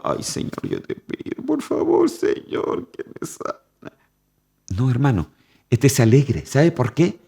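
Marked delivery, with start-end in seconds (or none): 0.0-3.9 breathy whispered pleading to the Lord; mock whimpering prayer. Preacher mimicking a pitiful, whispered begging prayer. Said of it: "¿Usted cómo aguanta?".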